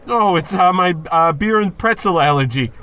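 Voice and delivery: flustered excuse. Acted. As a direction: bluster to hide the tears. Caught crying, makes excuse.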